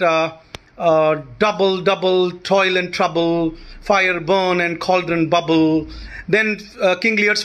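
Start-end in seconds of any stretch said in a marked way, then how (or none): 1.4-5.9 "Double, double, toil and trouble" with stressed-unstressed beats; trochaic verse recitation. Shown as a demonstration. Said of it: "These are trochaic in meter".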